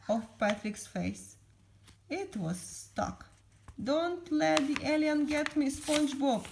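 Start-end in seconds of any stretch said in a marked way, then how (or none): 3.9-6.4 high, raised cry of alarm; Patrick. A narrator's reading. Patrick begging SpongeBob to save him, crying out. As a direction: plead loudly for rescue. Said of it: "cried Patrick".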